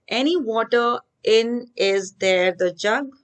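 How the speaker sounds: slow, halting, reading the scrambled order; slow jumbled reading. Shown as a demonstration. Teacher reads the jumbled words to the class, slowly. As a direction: spell out the jumbled words one by one. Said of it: "Is there any water in the jug?".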